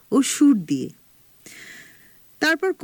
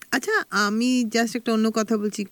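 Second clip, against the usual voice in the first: echo. Real, not acted. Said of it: "মনে হচ্ছে ইকো হচ্ছে আমাদের গলাটা?".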